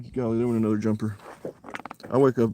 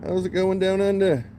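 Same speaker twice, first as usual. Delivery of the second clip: loud, high-pitched put-on Australian greeting; hammed-up Crocodile Dundee style Australian; Australian accent; 8 semitones higher, 4 dB louder, slower than usual. Angler greets a viewer down under, mock Australian accent. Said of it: "I hope my accent is not offensive".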